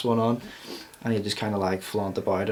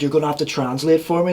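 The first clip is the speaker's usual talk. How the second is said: put-on Scouse accent; 4 semitones higher, faster than usual. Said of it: "He's like".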